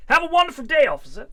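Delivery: high, lightly hammed-up British farewell; playful British accent. British driver to the officer, cheery caricature British accent. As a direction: lift it like a very British goodbye.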